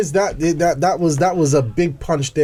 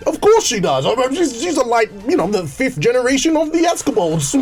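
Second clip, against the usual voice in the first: higher-pitched mock-posh boasting; posh English accent; 6 semitones higher than usual. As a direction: brag in put-on posh English. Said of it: "Does your missus speak that way".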